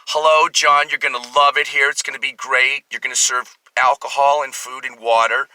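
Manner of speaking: attempted Philadelphia accent; Philly accent. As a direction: imitate the Philly-accented bosses. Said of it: "if I can do a Philly accent".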